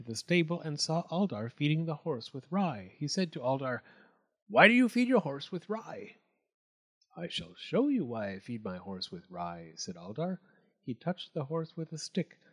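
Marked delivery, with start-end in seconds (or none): 4.5-6.2 higher, puzzled goatman. A narrator's reading. Goatman asks Aldar. 7.2-9.7 low, soft and sly; sly Aldar voice, softer. A narrator's reading.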